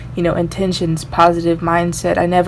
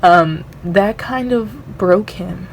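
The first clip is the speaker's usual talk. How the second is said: holding back tears. Real, not acted. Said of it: "I'm trying not to cry".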